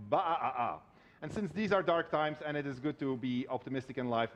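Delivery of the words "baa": bleating like a sheep; a drawn-out baa. Pretend. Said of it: "or I can just say".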